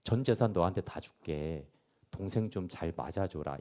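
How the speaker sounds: soft, gentle reassurance to a rude son; father answers a rude son softly. Retold or imitated. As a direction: soothe him softly instead of scolding. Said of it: "이게 화내거나 혼내는 겁니까?".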